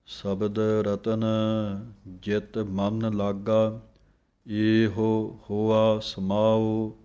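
slow, devout chanting of scripture; measured devotional reading; slow gurbani recitation. Acted. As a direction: recite it slowly like a hymn.

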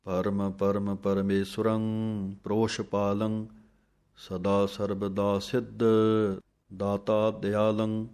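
slow, measured chant of verses; scripture recitation. Acted. Teacher recites Jaap Sahib for students, slow chant. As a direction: recite each line with reverence.

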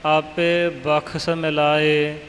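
slow, aspirated kh in ਬਖਸ਼; careful demonstration, kh not k in ਬਖਸ਼; kh pronunciation. Shown as a demonstration. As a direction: sound out ਬਖਸ਼ with a clear kh before the s. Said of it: "ਇਸ ਤਰ੍ਹਾਂ ਪਾਠ ਕਰਨਾ ਜੀ".

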